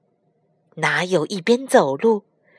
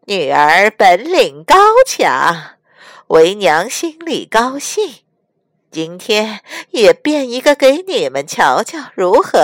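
forced laugh; 4 dB louder than usual. Acted. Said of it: "干笑了两声".

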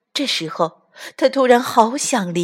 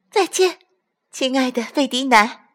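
stork voice; 6 semitones higher than usual. Acted. Stork says goodbye.

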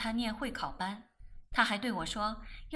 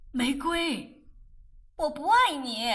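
loud, high blunt refusal; forceful higher rejection; 4 semitones higher, 7 dB louder, slower than usual. Acted. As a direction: throw the words back at him. Meigui rejecting him to his face.

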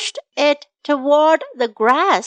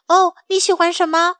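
worried; 4 semitones higher, faster than usual. Acted. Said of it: "松鼠很着急地问".

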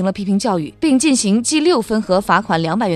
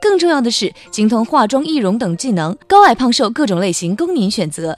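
infomercial; 2 semitones higher than usual. Acted. Parody ad sales pitch.

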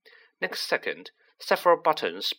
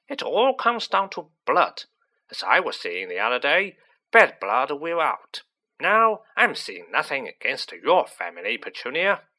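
lightly voiced scornful aunt, louder on the insults; 2 semitones higher, 4 dB louder than usual. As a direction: disparage the boy as a haughty aunt. Voices Aunt March insulting the family.

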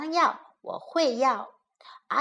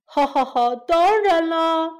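crocodile laughing; 3 dB louder than usual. Acted. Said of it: "鳄鱼笑道".

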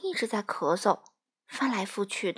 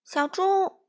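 high, louder storybook shout; calling out; 9 semitones higher, 5 dB louder than usual. A narrator's reading. Duck hails Pig passing by, calling out. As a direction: hail someone passing by, pitched up. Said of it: "小鸭叫道".

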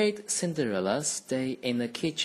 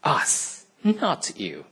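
smirking; 3 semitones higher, 4 dB louder, slower than usual. Acted. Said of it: "they added, smirking".

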